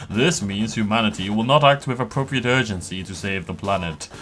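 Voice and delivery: lightly voiced church elder; a hint of solemn mock cleric. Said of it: "I need, like, a church voice".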